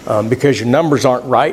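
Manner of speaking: low, softened, gentle explanation; understated kindly doctor's tone. Retold or imitated. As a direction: break it to the patient kindly in a low voice. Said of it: "very kindly said".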